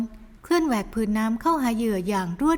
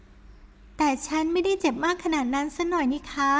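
put-on higher, slow girlish reproach; soft protest; 6 semitones higher, slower than usual. Young woman softly protests being carried. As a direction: scold him softly. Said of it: "ต่อว่าเสียงอ่อน".

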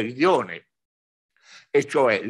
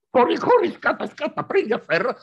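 high, loud urgent call; urgent shout; 12 semitones higher, 7 dB louder than usual. Retold or imitated. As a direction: hurry them along, shouting. Monks urging to flee.

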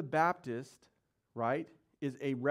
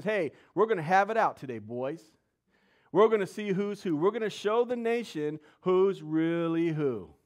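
loud, raised-pitch challenge to rivals; acted challenge; 3 semitones higher, 6 dB louder than usual. Elijah calls out the prophets of Baal, loud challenge. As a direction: call them out like a preacher playing Elijah.

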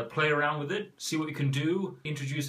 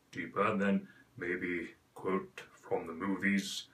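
deeper, lowered and slowed; 4 semitones lower, 4 dB quieter, slower than usual. Shown as a demonstration. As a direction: drop the voice down into the chest. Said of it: "lowering your voice so it becomes deeper".

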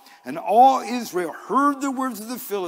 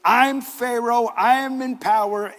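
haughty Pharaoh; 4 semitones higher, 5 dB louder than usual. Acted. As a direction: lord it over them as Pharaoh. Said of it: "is to suggest".

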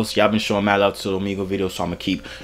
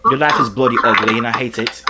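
mock angry British. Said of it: "I'm only good at being angry British".

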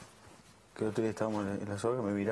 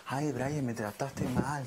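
mock crying whine; much slower than usual. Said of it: "llorándole casi en el hombro".

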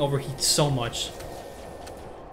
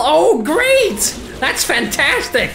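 sarcastic; 11 semitones higher, 6 dB louder, slower than usual. Real, not acted. Sarcasm at lost weapon.

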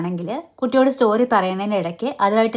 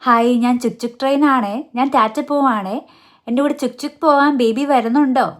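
toy train talking. Shown as a demonstration. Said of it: "ട്രെയിനായിട്ട് കുട്ടിയോട് സംസാരിക്കാം".

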